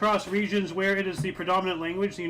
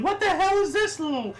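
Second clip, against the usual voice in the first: high, baffled exclamation; imitating a baffled viewer's surprise; mock baffled; 4 semitones higher than usual. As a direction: play the stunned onlooker. Retold shock at small actor.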